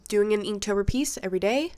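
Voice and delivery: blocked nose, slightly panting; stuffed up. Real, not acted. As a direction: talk through a head cold. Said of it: "I'm so sorry that I'm panting, but really, I am stuffed up".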